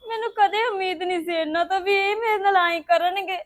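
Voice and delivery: crying. Acted. Girl weeps over family betrayal.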